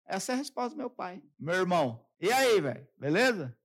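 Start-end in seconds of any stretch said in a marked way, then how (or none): 2.2-3.6 casual bro greeting. Retold or imitated.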